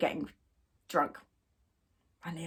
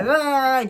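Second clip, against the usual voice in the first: louder, higher mocking groan; mock drunken groan; 5 semitones higher, 4 dB louder than usual. Imitating the drunk bride's noise.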